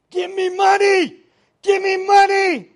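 loud, high preacher's demand shouted at a crowd; imitated screaming. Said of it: "He was screaming at the crowd".

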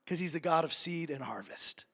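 hushed, voiceless whisper. Real, not acted. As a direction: lean in and whisper it. Preacher drops to a whisper.

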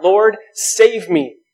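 a sinking believer crying to the Lord, slow and pleading; desperate plea. Retold or imitated. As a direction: stretch out a desperate call to the Lord. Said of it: "we cry out".

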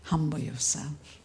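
asking God, quietly puzzled; puzzled question. Retold or imitated. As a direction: turn Humble yourself into a soft puzzled query. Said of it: "Lord, what does it mean?".

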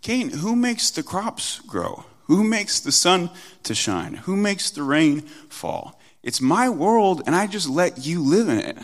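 lightly voiced God laying down authority; God admonishing Cain. God rebuking Cain over his offering, insistent. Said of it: "could have said the same thing to Cain".

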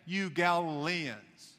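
slow, scornful you Galileans; a touch of looking down the nose; scornful slur. Retold or imitated. City folk sneering at hill people, slow mild scorn. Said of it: "I understand what they're saying".

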